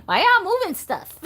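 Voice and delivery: high, loud and laughing; laughing mock outrage, pitched right up; mock indignant. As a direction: playfully call out the mischievous dolls. Acted question to her dolls.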